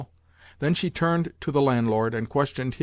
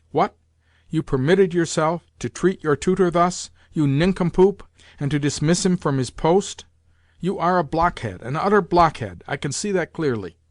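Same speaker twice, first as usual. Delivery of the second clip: put-on higher, indignant old lady berating her son; scolding grandmother; 4 semitones higher, 3 dB louder than usual. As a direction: tear into the General.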